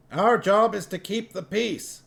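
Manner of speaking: a high voice for the dwarf Cuddy, alarmed. A narrator's reading. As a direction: squeak it out like a startled dwarf.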